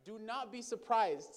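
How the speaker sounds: ordinary talk, nothing marked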